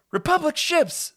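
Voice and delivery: high, loud, slow, awed exclamation; excited. Acted. Peter spotting gunships overhead, high and excited. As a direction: gasp out the ships in wonder. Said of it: "says Peter excitedly".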